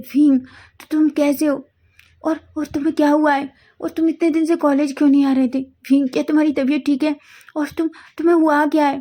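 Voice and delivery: anxious friend rushing through questions; breathless rush of questions. Acted. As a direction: fire off worried questions without a breath. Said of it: "तुम सांस तो लो".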